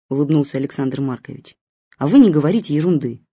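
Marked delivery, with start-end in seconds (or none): 2.0-3.2 a touch of cross scolding, a little louder; mild anger. Acted. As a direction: tell him off half-fondly. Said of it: "рассердилась мама".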